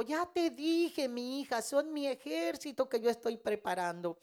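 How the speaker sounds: a gently firm word from God to his daughter; firm divine voice. Retold or imitated. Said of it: "Y Dios me dijo".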